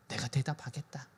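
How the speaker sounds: very soft, low-pitched divine answer; hushed promise. Acted. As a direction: drop right down and promise it quietly. God's answer voiced very softly. (아주 낮고 조용한 목소리로 약속)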